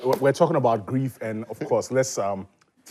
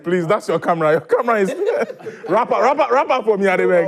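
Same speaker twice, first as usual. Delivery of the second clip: laughing while teary; 4 semitones higher than usual. Real, not acted. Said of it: "He's crying".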